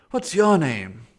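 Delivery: high, loud New England driver asking a name; first try at the driver's New England accent. Acted. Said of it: "Maybe I should perfect the accent here".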